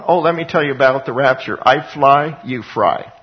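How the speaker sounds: fast, smug mock gloating; mock a smug believer who gloats, quickly. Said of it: "we shouldn't have the attitude of".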